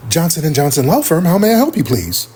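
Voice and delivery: polished office phone greeting; lightly voiced professional receptionist. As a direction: answer like the firm's receptionist. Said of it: "she knew how to be very articulate".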